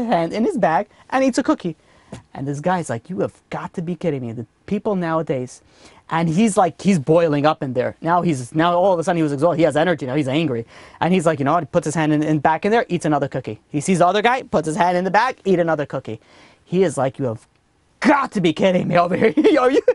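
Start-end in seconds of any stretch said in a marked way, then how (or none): 3.1-5.6 quiet disbelief. Acted. Traveler privately fed up with the cookie thief, quietly disbelieving. 17.2-19.8 mock hysterical disbelief breaking into laughter; hysterical laughing. Traveler watching the stranger take another cookie, laughing in disbelief. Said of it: "laughing hysterically".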